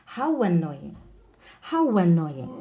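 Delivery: "How annoying" with a w glide before annoying; linked W sound. Shown as a demonstration. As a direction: join How to annoying as how-wannoying. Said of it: "the W with the vowels".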